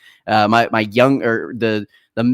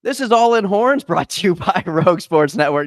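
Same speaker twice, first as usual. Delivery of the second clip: plain; 7 semitones higher, 3 dB louder than usual. Acted. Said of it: "I'm done with this".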